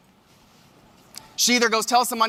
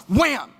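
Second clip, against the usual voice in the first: imitated slam; 4 semitones higher than usual. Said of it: "the sound that she made on that plastic".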